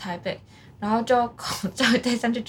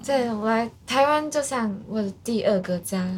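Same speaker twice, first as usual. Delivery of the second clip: put-on Japanese accent. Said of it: "一段日本腔那样子".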